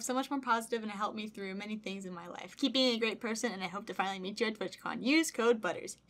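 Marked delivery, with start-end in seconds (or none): none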